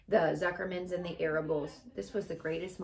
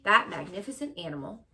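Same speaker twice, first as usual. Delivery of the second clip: announcer; 5 dB louder than usual. Acted. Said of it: "continued the loudspeaker".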